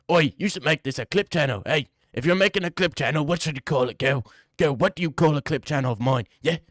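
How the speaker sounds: lightly put-on British accent; mock British voice. The speaker asking a girl for a channel name, mock British. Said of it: "that type of person".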